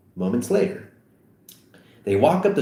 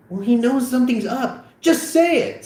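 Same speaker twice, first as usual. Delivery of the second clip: higher, insistent friend; pushy teen voice; 3 dB louder than usual. Acted. Seth pressing his friends, voiced higher and insistent. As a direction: push Vogel to spill it.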